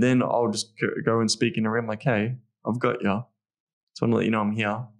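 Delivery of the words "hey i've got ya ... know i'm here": really soft. Shown as a demonstration. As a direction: soothe her gently. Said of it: "now I'm being really soft".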